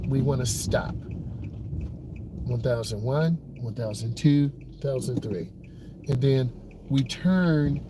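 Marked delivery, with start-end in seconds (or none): 2.4-5.5 counting seconds. Shown as a demonstration. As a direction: count it out evenly. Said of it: "counting the seconds".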